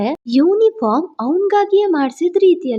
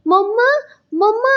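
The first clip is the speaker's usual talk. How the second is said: put-on higher, rising little boy's call; child calling mummy; 7 semitones higher than usual. A narrator's reading. Little boy running to his mother, calling her in a higher voice.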